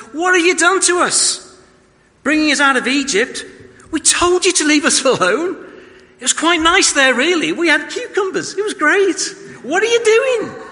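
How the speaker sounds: high, loud mock whine; whining Israelites. Israelites whining at Moses about leaving Egypt.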